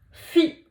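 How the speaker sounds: fi said high and bright; syllable reveal. Shown as a demonstration. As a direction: announce fi clearly. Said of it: "ça donne ensemble". (fi annoncé haut)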